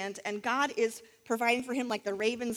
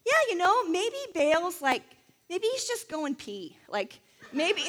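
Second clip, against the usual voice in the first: mocking; 6 semitones higher than usual. Elijah taunting the prophets of Baal, mocking and high-pitched. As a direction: taunt them like a playground bully. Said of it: "he starts to mock them".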